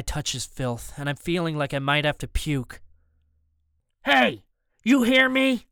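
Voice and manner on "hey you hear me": high, slow, loud holler; muffled loud call. A narrator's reading. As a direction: call out as if through a wall. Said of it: "the voice muffled but loud enough".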